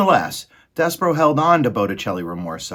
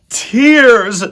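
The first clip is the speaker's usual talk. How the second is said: high, loud drawn-out shriek; shouting rats; 13 dB louder than usual. A narrator's reading. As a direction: shriek it as a gleeful rat pack. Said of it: "shouted the rats".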